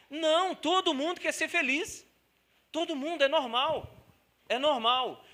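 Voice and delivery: bem mais alto e agudo, enfático. Real, not acted. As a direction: proclama com força. Pregação enfática. (ênfase de pregador)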